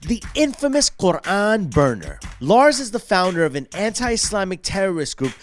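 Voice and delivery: slow, dramatic presenter read; documentary intro read. Acted. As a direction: announce the villain like a trailer. Scripted intro read to camera.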